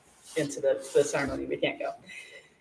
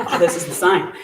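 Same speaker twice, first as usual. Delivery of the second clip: repeated through a laugh; excited laughing take on the same words; laughing realization; 2 semitones higher, 6 dB louder than usual. Retold or imitated. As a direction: laugh as the truth sinks in. Friend realizing the sign.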